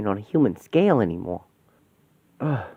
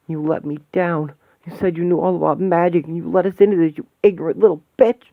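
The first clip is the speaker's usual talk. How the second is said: bitter accusation; 4 semitones higher, 4 dB louder, faster than usual. Acted. Lashing out at friend.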